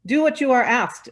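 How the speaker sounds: loud, high commanding demand; an angry woman demanding in the Assembly. Acted. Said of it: "another said".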